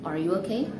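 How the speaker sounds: "okay" lifts at the end; rising question tune. Shown as a demonstration. Teacher showing students a yes-no question, rising intonation. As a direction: let the pitch climb on "okay". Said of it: "rising intonation in the end".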